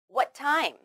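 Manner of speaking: "What time" with one shared T; linked T sound. Shown as a demonstration. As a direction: join "What" into "time" on a single T. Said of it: "only need to say one t sound".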